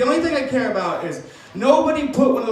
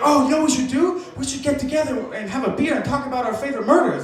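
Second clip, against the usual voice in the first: put-on excited Tinder girl; 4 semitones higher than usual. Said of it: "she got really excited".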